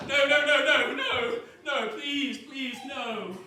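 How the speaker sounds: laughing pleading. Acted.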